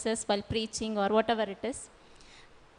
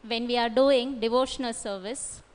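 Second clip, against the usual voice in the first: slower and louder, spelled out clearly. Shown as a demonstration. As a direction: repeat it slowly over the noise. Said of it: "Can you speak slowly and loudly?".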